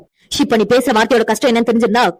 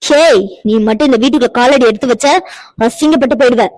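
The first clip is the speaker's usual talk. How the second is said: angry threat. Acted. Mother-in-law threatens the girl.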